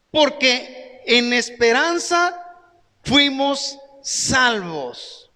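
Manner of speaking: very slow, drawn-out reading of the verse; slow intoned scripture. Shown as a demonstration. Pastor proclaiming the verse to the congregation, very slow. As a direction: stretch every word of the verse.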